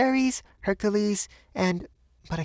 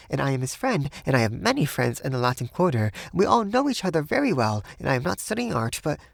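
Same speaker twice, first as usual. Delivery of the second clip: high, voluble woman's voice, rushing in places; nervous high chatter that falters at the end; almost feverish; 5 semitones higher, faster than usual. A narrator's reading. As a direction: talk on feverishly, pitched high. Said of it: "began talking almost feverishly".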